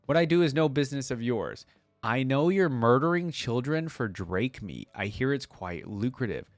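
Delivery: measured audiobook-style delivery; story narration. A narrator's reading. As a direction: read the tale aloud dramatically. Reading story aloud.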